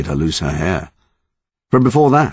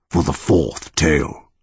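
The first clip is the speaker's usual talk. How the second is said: slow monster voice. Acted. Monster announces tale.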